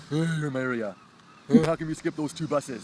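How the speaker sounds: imitated mom hailing someone; mom calling out. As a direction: call out like a mom appearing from nowhere. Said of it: "her mom would come out of nowhere".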